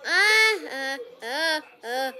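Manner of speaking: scared yelps; panicked little shrieks; frightened cries. Real, not acted.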